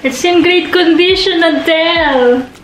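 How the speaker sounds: high, excited calling out; excited shouting. Real, not acted. Unboxer to Adele about the plant's great condition, excited. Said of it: "I don't know why I'm shouting".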